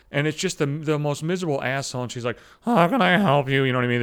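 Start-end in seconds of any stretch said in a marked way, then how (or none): 2.6-3.6 flat-voiced. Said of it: "flat-voiced piece of shit".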